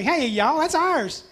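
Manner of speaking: put-on high, bright East Tennessee accent, rising as it goes; East Tennessee drawl. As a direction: play a possessive East Tennessee kid claiming what's hers. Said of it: "But in East Tennessee".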